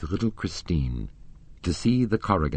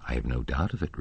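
gravely; 5 semitones lower, 4 dB quieter, faster than usual. A narrator's reading. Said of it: "replied the young man gravely".

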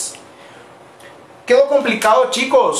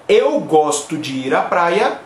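slow model answer; 3 semitones lower than usual. Shown as a demonstration. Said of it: "Ahí pongan".

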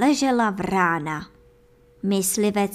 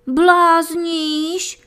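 loud, higher, sharp retort from the miller's wife; wife snapping; 8 semitones higher, 7 dB louder than usual. A narrator's reading. Miller's wife snaps at her foolish husband, loud and sharp. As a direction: snap back at him, fed up. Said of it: "osopila se na muže paní máma".

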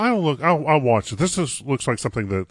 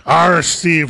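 pirate voice; 3 semitones higher, 5 dB louder than usual. Pretend. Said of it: "we'll be talking like a pirate".

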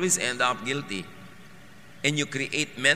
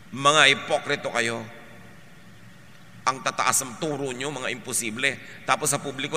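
loud, raised accusation that sinks at the end; Jesus denouncing man-made laws; 4 dB louder than usual. Retold or imitated. Jesus condemning Israel's religious laws, loud and angry. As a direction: hurl the charge, then let it drop. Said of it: "Anong sabi niya".

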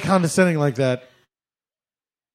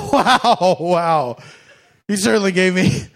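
mock polite hint. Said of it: "Just something like".

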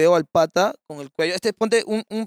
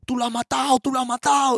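accusing neighbour; 6 semitones higher than usual. Retold or imitated. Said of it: "y sale uno de ellos".

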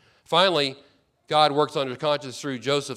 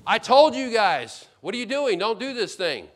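Reuben pleading; 7 semitones higher, 6 dB louder than usual. Retold or imitated. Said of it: "and he says".

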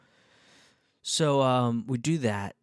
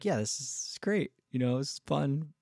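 nonchalant; 5 semitones higher than usual. Retold or imitated. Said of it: "he doesn't freak out".

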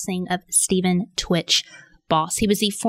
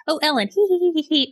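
giggly mockery; 8 semitones higher, much faster than usual. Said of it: "it's like".

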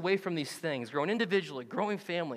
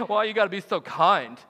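laughing mock question. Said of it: "There's that thing again".

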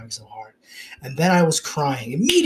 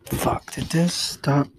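whisper; slower than usual. Real, not acted. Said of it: "stopped recording".

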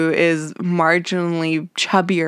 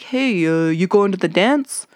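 lightly voiced dopey teen boy; a hint of a dim boy asking her out; Spinner impression. Imitating Spinner asking Terry to the dance, dopey boy voice. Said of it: "I don't know why he sounds like that".

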